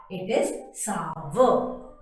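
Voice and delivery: sour slow as SAU-er; correct pronunciation. Shown as a demonstration. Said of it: "the correct pronunciation".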